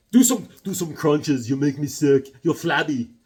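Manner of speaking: hammed-up tough fitness coach; drill coach Superman. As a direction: bark it like a gym teacher. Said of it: "He's like".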